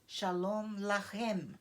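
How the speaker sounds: Shalom Lachem, slow, with a throaty ch in Lachem; slow Hebrew greeting. Shown as a demonstration. Teacher demonstrating the Hebrew greeting, slow and careful. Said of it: "dizer paz para vós".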